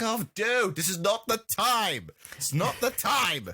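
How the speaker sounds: high, exasperated reproach; mock exasperation. Podcaster scolding the film's creepy soldier, high mock exasperation. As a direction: protest it high, as if fed up. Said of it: "it's like".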